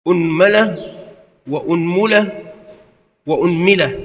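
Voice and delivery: أنملة with damma on the hamza, mim said first with a, then u, then i; أنملة said as unmala, unmula, unmila; vowel variants. Shown as a demonstration. Teacher demonstrating the damma forms, careful articulation. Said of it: "وفي الميم ثلاثة أوجه".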